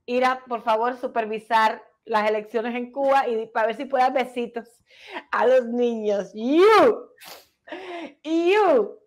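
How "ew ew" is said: drawn-out "ew" of disgust; mock disgusted "ew". Co-host reacting to kisses for children, mock disgusted "ew". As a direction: let out two separate, mocking "ews".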